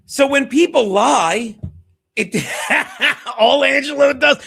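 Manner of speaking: loud, fired-up rant; heated rant. Real, not acted. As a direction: blast it out, worked up over the lie. Heated rant about lying.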